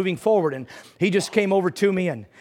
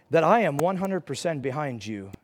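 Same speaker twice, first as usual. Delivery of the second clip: hushed quote; 4 semitones lower, 6 dB quieter than usual. Retold or imitated. Retells brother's tender encouragement.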